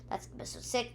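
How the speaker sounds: soft whisper to wrap it up; whispered aside. Real, not acted. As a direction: drop to a whisper for the sign-off. Whispered aside closing the episode.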